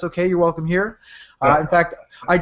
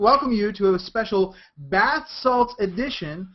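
zombie voice; 5 dB quieter than usual. Pretend. Zombie-voiced show intro.

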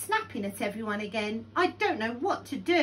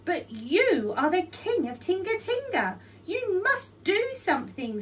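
high, louder little pleading voice; urgent tiny flea; 9 semitones higher, 5 dB louder than usual. A narrator's reading. Tiny Flea urging Lion to act, high and insistent. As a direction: urge him in a high voice.

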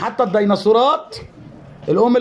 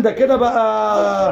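dying battery voice; much slower than usual. Pretend. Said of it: "بطارية خلصانة ولا ايه؟".

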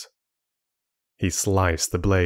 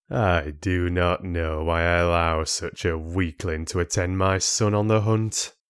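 sneering father; 2 semitones lower than usual. Acted.

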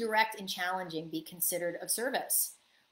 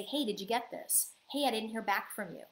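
softer, light innocent check-in; 4 dB quieter than usual. Shown as a demonstration. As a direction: ask helpfully, no blame. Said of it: "I'm gonna be of service and say".

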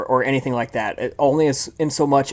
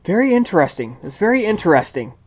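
detached fascination; 5 semitones higher than usual. Acted. Scientist unmoved by victim's pleas.

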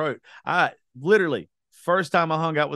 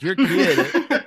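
imitating upset woman; 7 semitones higher, 8 dB louder than usual. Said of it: "this woman was like".

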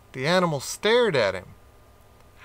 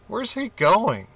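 wondering; 7 semitones higher than usual. A narrator's reading. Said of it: "the other animals wondered".

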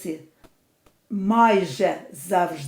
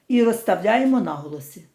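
ordinary delivery

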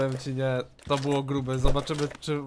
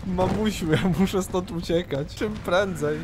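mild panic; 5 semitones higher than usual. Pretend. Player wants to flee in game.

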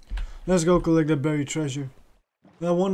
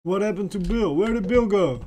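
higher-pitched, puzzled questioning; puzzled dismay; 5 semitones higher than usual. Real, not acted. Player missing dog Bill, puzzled and higher. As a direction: let the pitch climb as you wonder where he went.

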